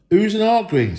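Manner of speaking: high, loud indignant retort; a bickering troll snapping back. A narrator's reading. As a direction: fire it back, offended. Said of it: "said William".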